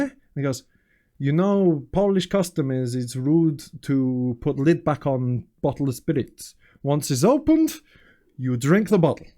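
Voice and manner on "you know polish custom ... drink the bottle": slow, lightly put-on Polish accent, explaining a rule; mock Polish accent. Polish colleague tells guests the bottle must be finished, slow mock Polish accent. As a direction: play the Polish host laying down the custom, slow.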